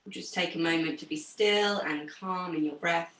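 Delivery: low, calm meditation-style voice; guided breathing. Real, not acted. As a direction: settle the class into stillness. Leads calming breathing exercise.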